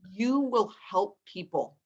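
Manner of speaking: slow, deliberate retold pronouncement; measured, solemn counsel; Maya Angelou. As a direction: lightly imitate a revered elder, word by word. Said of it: "And with that voice".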